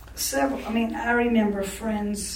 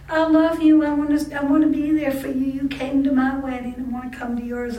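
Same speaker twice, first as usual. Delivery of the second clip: higher, louder, sugary imitation of her; sister-in-law's sweet plea; 4 semitones higher, 4 dB louder than usual. Sister-in-law on the phone pleading to come, mock sweet. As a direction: mimic a gushing sister-in-law. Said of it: "got on the phone ... and said".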